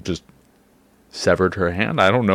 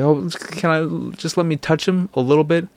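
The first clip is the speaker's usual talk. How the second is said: high-pitched, timid begging voice; mock emotional pleading; 10 semitones higher than usual. Mother begging to touch her baby, mock-pleading. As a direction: beg for one small favor, hammed-up. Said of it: "she's just all emotional".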